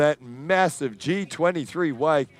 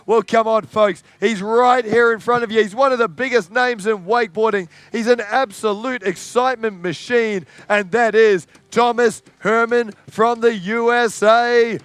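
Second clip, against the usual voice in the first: fast, raised hype for the star rider; crowd hype; 3 semitones higher than usual. Real, not acted.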